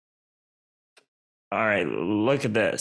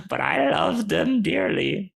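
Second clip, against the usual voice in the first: lilting, raised creature voice; animated little creature, climbing higher; fond burrow creature; 5 semitones higher than usual. Acted. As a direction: play a critter gushing over its treasures.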